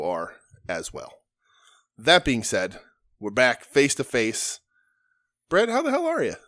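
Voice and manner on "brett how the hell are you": high, hyped-up call to a friend; big excited hello; excited greeting. Real, not acted.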